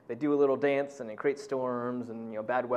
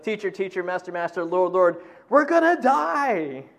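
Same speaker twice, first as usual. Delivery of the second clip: tag; 5 dB louder than usual. Retold or imitated. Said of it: "different variations of".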